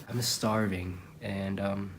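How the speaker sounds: tired, weak hungry voice; worn-out weak voice from hunger. Real, not acted. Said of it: "you can tell in my voice too, it's a little bit weaker".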